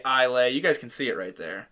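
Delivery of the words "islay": Islay said as EYE-lay; Islay as EYE-lay, rhyming with "day"; wrong pronunciation. Shown as a demonstration. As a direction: drop the s in Islay but end on AY. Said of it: "it looks like it's pronounced".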